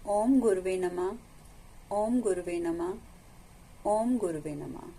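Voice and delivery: measured mantra with a leaning Om; mantra recitation. Real, not acted. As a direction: intone each repetition evenly, settling on the last. Repeated invocation mantra to gurus. (गुरु मंत्र का जाप)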